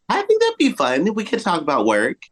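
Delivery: high giddy delight; excited. Real, not acted. Cohost joking about a hitman husband, high giddy delight. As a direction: gush it playfully.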